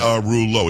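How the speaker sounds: "Pagarullo" in four syllables, without the LIA; shortened surname pronunciation. Shown as a demonstration. Host shows his grandfather's version, shortened pronunciation. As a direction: drop the LIA, saying "Pagarullo". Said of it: "It's only four syllables".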